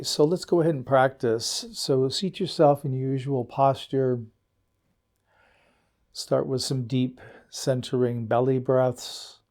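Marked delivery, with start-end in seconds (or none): 1.7-9.4 guided meditation. Acted. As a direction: ease listeners into stillness, letting each phrase settle. Leads the meditation.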